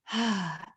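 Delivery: deep breath sigh. Shown as a demonstration. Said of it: "Deep breaths".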